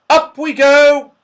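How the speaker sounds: high, drawn-out joyful call; shouted. A narrator's reading. Joe calls as the basket swings upwards, shouting. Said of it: "shouted Joe".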